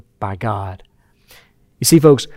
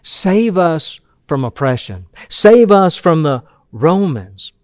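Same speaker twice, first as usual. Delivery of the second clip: mild crowd plea; slower than usual. Retold or imitated. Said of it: "the Jewish people were crying out".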